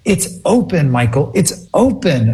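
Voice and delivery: proudly telling Michael it opened; elated mom. Retold or imitated. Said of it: "her whole tone changed".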